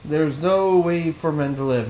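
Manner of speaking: slow, drawn-out lament for the unfortunate souls; sighing pity dragged out slowly; solemn game character. Acted. Reads a game character's lines.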